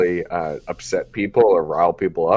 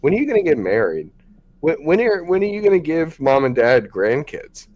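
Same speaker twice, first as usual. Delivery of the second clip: nagging relative; 7 semitones higher than usual. Retold or imitated.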